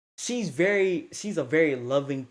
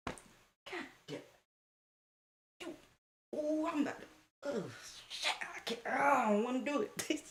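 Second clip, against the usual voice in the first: mock dread; 10 semitones higher, 9 dB quieter than usual. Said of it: "dreading the fight".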